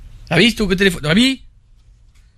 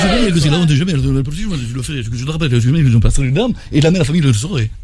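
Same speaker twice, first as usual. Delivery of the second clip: a lightly voiced angry husband, lower, threatening; jealous husband; 5 semitones lower than usual. Husband threatening the caller on voicemail, mock angry. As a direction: play the furious husband leaving a menacing message. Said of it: "quel accent il prend le mari".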